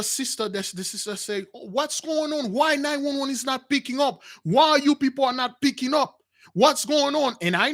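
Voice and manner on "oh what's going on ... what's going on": high, urgent, frightened questions; panicked questions. Retold or imitated. Sister by the train track calling 911, high and frightened. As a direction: sound like you fear the train is coming.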